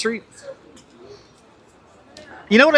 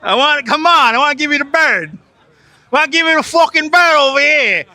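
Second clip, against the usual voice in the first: higher, louder furious New York rant; angry rant; 9 semitones higher, 4 dB louder than usual. Acted. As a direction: shout it at the whole crowd. Ranting at crowd blocking sidewalk.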